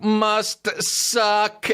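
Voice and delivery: high, drawn-out trance chant; hypnotised man. Acted. Hypnotised man obeying his trigger, high droning chant. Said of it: "the guy will go like".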